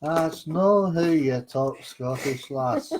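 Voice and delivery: slow, hammed-up Scottish accent; bad Scottish accent. Shown as a demonstration. Co-host teasing her attempt, in a bad Scottish accent. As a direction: have a go at clumsy, drawn-out Scottish. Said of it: "I do the worst Scottish accent".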